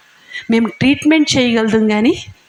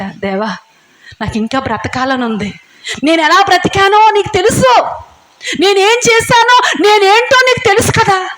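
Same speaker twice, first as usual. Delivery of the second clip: imitated tearful plea; 6 semitones higher than usual. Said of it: "అని ఏడుస్తుంటుంటే".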